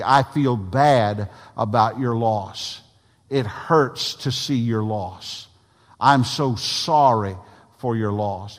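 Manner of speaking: slow, heartfelt condolence; sympathetic. Acted. Preacher modelling condolence to the bereaved, sympathetic. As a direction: offer deliberate, drawn-out sympathy. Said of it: "some sense of sympathy".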